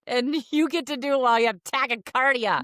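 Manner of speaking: high, holding back laughter; stifled giggles. Real, not acted. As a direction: talk through suppressed giggles. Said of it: "I'm trying not to laugh".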